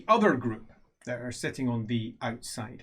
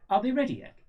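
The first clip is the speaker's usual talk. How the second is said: higher upper-class English voice; upper-class English, raised pitch; upper-class English accent; 9 semitones higher, faster than usual. Acted. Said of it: "it's definitely upper class".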